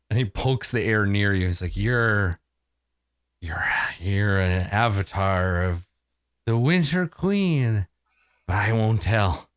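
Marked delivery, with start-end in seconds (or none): 1.8-9.5 slow, half-whispered revelation; whispery, slow and reverent to milady; secretive confiding. Acted. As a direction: share a secret in a low, hushed character voice. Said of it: "he says quietly".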